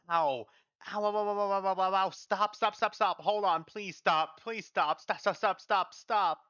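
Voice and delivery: high, loud cries to stop; pained pleading. Acted. Patient begging for a painful procedure to stop, pained pleading. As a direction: beg through sharp pain, voice pushed up.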